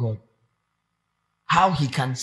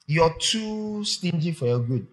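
stern God. Retold or imitated. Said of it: "looks at someone and says".

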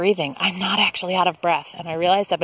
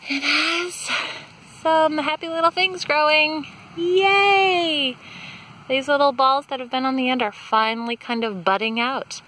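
higher-pitched, happy excitement with a high "yay"; excited; 7 semitones higher than usual. Real, not acted. Gardener spotting new buds on her plant, excited. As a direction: delight in new growth, pitched up. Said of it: "I'm so excited".

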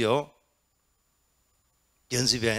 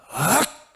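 loud, higher Zen shout; sharp shout; 8 semitones higher, 7 dB louder, much slower than usual. Shown as a demonstration. Teacher demonstrating the disciple's shout, loud sharp cry. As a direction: blast out a single sharp cry. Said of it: "이러는 겁니다".

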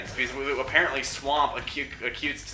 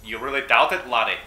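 put-on Scottish accent; 5 dB louder than usual. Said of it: "talk in a Scottish voice".

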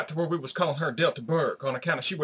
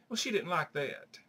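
deadpan; 3 semitones lower, 9 dB quieter than usual. Acted. Running deadpan refrain.

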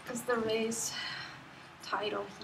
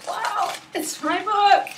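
higher, slow, teary wonder; real choked-up disbelief; tearful awe; 6 semitones higher, 4 dB louder, slower than usual. Real, not acted. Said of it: "I'm sorry for the tears".

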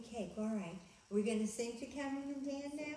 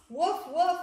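surprised puppy bark; 8 semitones higher, 11 dB louder than usual. Acted. Librarian voicing a startled puppy, loud rising barks. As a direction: gasp then loud rising woofs.

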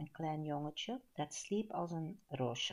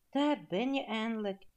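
higher, louder relieved welcome; 5 semitones higher, 7 dB louder than usual. A narrator's reading. Perkamentus welcomes the long-awaited giant, relieved. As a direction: let relief lift the voice. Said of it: "zei Perkamentus opgelucht".

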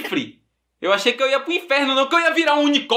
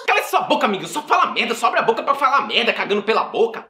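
angry rant. Acted. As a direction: burst out scolding, then run down. Girl snaps at the mocking creature.

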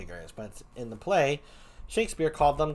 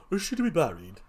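hurried put-on clown voice; tentative second clown try-out; trial clown voice. Shown as a demonstration. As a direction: try another quick character voice. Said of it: "what kind of voice should I give him?".

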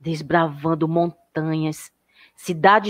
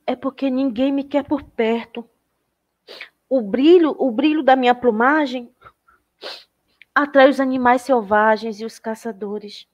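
higher, a touch of sorrow; a lonely bird pouring out its trouble; sad little bird; 4 semitones higher than usual. Acted.

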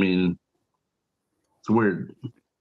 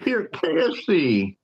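put-on Alabama accent; 12 semitones higher than usual. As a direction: sing it out in a Southern Alabama accent. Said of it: "from the South accent there?".

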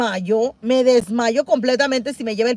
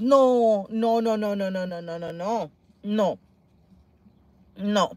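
fading horrified no; 4 semitones lower, 8 dB quieter, slower than usual. Real, not acted. Fading into horror.

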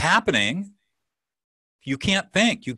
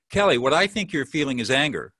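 tentative interpretation. Shown as a demonstration. Coach demonstrating the hedged version to host, tentative. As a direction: hedge it like a textbook listener. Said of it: "let me just experiment here".

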